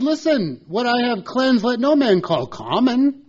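high, loud, commanding voice of God. Acted. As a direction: boom it down as God. God speaks to Peter.

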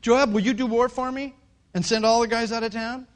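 loud kingly request to his commander; calling out. Acted. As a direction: call it out to Joab. King calls to his commander.

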